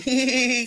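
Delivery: mock-giddy high "hee"; short high giggle. Woman retelling her excitement at meeting a new person, giddy high giggle. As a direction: let out a quick, high giggle.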